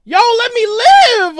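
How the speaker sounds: high, slow drawn-out cry; exasperated plea. Real, not acted. Player under pressure from opponent, exasperated plea. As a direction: mock-desperate begging, stretched out.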